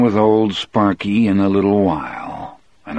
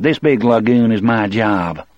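sneering Percy voice; 4 semitones higher, 3 dB louder than usual. Acted. Percy's mocking joke.

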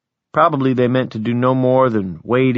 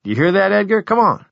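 grinning excitement; 10 semitones higher than usual. Acted. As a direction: urge his friend along happily. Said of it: "turned to me grinning".

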